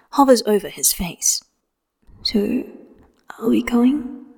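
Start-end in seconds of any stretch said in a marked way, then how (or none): 2.2-4.3 light curious whisper. A narrator's reading. Wen Kexing always whispered.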